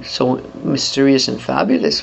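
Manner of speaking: put-on mysterious voice, kept down; mysterious and fabulous. Shown as a demonstration. Singer showing performers an affected voice, mysterious and fabulous. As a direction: play at being mysterious and fabulous. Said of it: "if you wanna do this".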